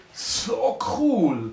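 high, loud little cheer; thrilled. Acted. Dwarf breathing underwater, high loud cheer. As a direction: burst out with delight.

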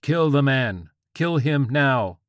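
high, loud voice of God; screamed command. A narrator's reading. God orders George to kill, screamed command. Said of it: "God screamed from George's pants".

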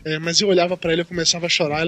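ordinary delivery

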